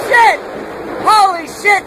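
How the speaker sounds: shocked exclamation. Real, not acted. Tree hit right there.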